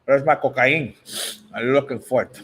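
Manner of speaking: put-on a light Cuban gangster accent, Tony Montana style; mock Scarface accent. A boxer teased in a mock Scarface accent. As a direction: tease him with a hint of Scarface. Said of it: "That's Scarface".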